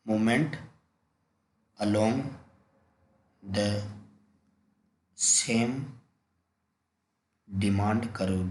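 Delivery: long pauses between each word; word-by-word dictation. Shown as a demonstration. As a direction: dictate the term one word at a time. Teacher dictates the term slowly. (एक-एक शब्द रुककर लिखवाते हुए)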